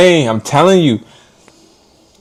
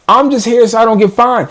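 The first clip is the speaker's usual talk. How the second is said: Marshawn Lynch quote; 6 semitones higher than usual. Retold or imitated. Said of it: "doing my Marshawn Lynch".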